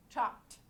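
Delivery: "Chopped" said as chopt; one syllable. Shown as a demonstration. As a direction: close "Chopped" straight on pt, no E. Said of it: "pronounced like one syllable".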